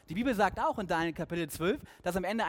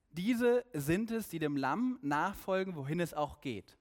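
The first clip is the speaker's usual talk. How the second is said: slow emphatic; slower than usual. Acted. Preacher stresses key verse.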